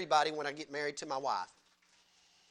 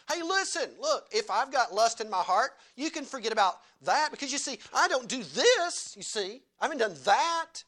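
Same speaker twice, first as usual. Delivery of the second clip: smug Pharisee; 3 semitones higher than usual. Retold or imitated. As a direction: brush off sin like a proud Pharisee. Preacher voices a smug Pharisee.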